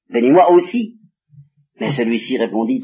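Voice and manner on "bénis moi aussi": plus aigu et plus fort, une supplique qui se brise; cri suppliant. Acted. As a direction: implorer son père, presque crié. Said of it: "il ne demande même plus d'être le seul". (Ésaü implore son père, cri désespéré)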